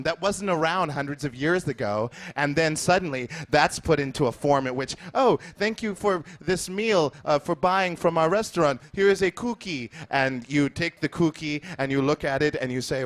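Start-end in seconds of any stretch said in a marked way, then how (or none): 5.1-9.9 higher-pitched, lightly voiced restaurant owner. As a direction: lightly play a restaurant owner thanking a customer.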